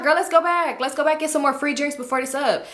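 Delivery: high, bright party voice; bubbly. Retold or imitated. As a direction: sound suddenly cheerful. Janet's high cheer.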